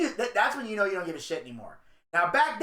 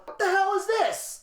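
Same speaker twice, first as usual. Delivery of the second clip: high, startled what-the-hell, half-coughing; shocked outburst; 12 semitones higher than usual. Retold or imitated. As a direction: shoot the question up in sudden shock. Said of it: "I look at her and I go".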